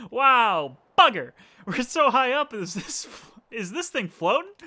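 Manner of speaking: high, loud hammed-up Cockney; playful fake Cockney; mock Cockney. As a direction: exclaim like a cheeky Cockney kid. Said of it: "I'm not gonna attempt the Cockney accent".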